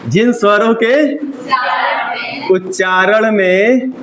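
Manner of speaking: slow, spaced phrase for writing down; slow dictation. Shown as a demonstration. Teacher slows down so he can write. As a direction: give them time to write. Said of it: "थोड़ा आराम से बोलिए".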